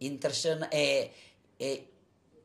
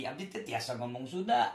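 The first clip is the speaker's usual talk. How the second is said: lower, softer Sundanese repeat; softer Sundanese accent; 4 semitones lower, 6 dB quieter than usual. Shown as a demonstration. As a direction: say it again quietly in Sundanese. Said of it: "Saya tahu bahasa Sunda".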